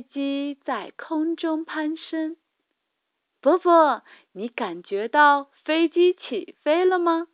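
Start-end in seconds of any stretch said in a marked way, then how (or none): 3.4-7.3 eager, louder dad asking; thrilled question to his child; excited. Acted. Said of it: "兴奋地说".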